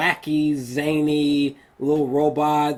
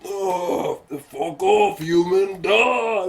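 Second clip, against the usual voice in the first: lightly voiced sneer; mock robot swatting away a human; dismissive robot; 3 semitones higher, slower than usual. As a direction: brush the human off bored. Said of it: "Prime needs to just go".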